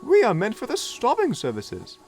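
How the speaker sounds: high, slow haughty correction; prim coach. A narrator's reading. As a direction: put the little diesel in his place.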